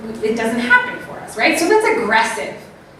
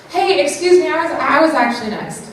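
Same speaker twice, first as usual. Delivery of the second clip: higher, calm and firm; friendly, firm assertive request; 4 semitones higher than usual. Shown as a demonstration. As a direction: state it kindly but clearly. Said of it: "there's, like, assertive".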